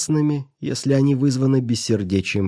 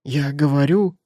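objecting; 4 semitones higher than usual. Acted. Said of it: "возразила та".

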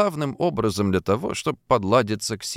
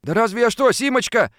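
higher, placating man; apologetic suitor; backing down; 12 semitones higher, 3 dB louder than usual. A narrator's reading. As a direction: retreat quickly, pleading. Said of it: "пошёл на попятную Фадейкин".

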